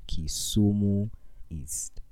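slow, hushed "Kisumu East"; dramatic whisper. Acted. Repeating the far-off school location, slow dramatic whisper. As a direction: breathe it out like bad news.

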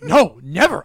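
loud, flat no, never; firm refusal. Retold or imitated. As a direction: shut it down hard. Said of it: "And I'm like".

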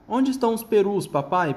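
put-on high child fox voice; little fox voice. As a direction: ask like an eager cub. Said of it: "perguntou a raposinha".

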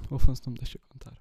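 shouting, fast, "O Afonso não me deixa contar"; shouted joke grievance at the mic; loud mock complaint. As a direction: blurt it out loudly as a protest.

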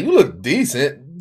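slow "you look decent", drawn out; his own delivery. Shown as a demonstration. Man promising co-host his compliment is innocent, understated. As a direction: deliver the compliment slowly, without fuss. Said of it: "if you look good and I say".

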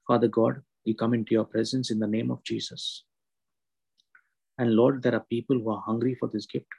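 hushed, earnest prayer to God. Acted.

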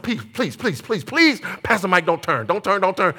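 rapid string of anxious pleases; hammed-up desperate plea; mock pleading. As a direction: beg under your breath in comic dread. Acts begging driver not to turn.

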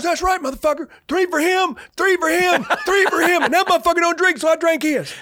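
high, loud gleeful boast; laughing loud retelling. Retold or imitated. First sergeant crowing to the young corporal, loud and laughing. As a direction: crow it out, laughing through the words. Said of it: "he goes".

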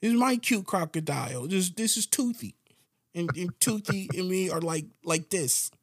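put-on high whiny child pleading; pleading like a small child; little kid voice. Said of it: "That little kid voice?".

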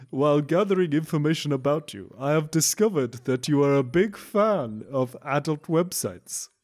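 a light mock Transylvanian accent. Reading a porn-shaming scam email in a Transylvanian accent. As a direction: read it like a hammed-up Transylvanian count. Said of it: "It's gone a bit Transylvanian".

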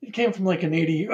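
scratchy sore-throat voice; talking through a sore throat. Real, not acted. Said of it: "My throat is kicking my ass today".

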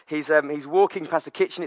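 ordinary delivery

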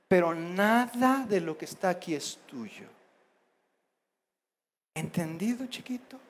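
very soft, spaced-out delivery; calm, firm parent. Acted. Parent reminds little child who owns everything, hushed firmness. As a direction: quietly make the rule final.

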